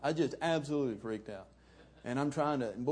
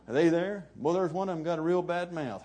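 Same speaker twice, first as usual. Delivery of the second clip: put-on booming old man, louder and higher; thundering voice; 6 semitones higher, 6 dB louder than usual. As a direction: boom it out like a blind preacher. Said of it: "talking just with a thundering voice".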